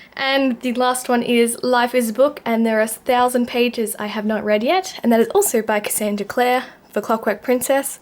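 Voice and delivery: puffing between words after the climb; out of breath. Real, not acted. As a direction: talk while still catching your breath. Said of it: "I'm out of breath".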